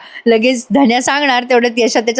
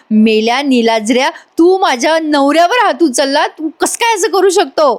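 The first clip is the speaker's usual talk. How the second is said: scolding; 4 semitones higher than usual. Acted. Nami scolds Raja.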